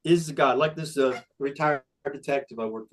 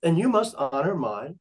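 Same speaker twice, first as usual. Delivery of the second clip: megalomaniac rant. Retold or imitated. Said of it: "I identify as King Ben of Conestoga".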